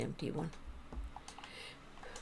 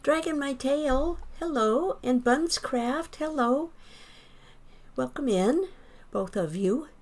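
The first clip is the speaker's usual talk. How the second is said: high, loud, bright welcome to chat; excited greeting; 8 semitones higher, 6 dB louder than usual. Real, not acted. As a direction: greet arriving viewers with real delight. Streamer greeting new chatters.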